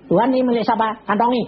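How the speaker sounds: quoted prayer. Retold or imitated. Retold exchange with God.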